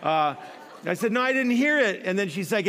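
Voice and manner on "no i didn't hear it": fibbing denial. Retold or imitated. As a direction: deny it a little too eagerly. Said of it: "but I told a fib".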